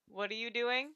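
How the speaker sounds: a light sing-song question; the simpler pet-talk take before Eagle's version; basic cat-talk version. Retold or imitated. The old way they talked to their cats, light pet voice. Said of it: "it used to be, like, a more basic".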